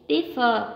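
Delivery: differ with DIF- stressed; stress on first syllable. Shown as a demonstration. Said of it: "chúng ta đánh vào trọng một".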